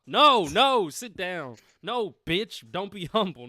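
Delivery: high, loud mock outburst; mock scolding. Co-host mocking the idea of being humble, mock scolding. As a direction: shout it down in exaggerated protest. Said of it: "you see how stupid that sounds?".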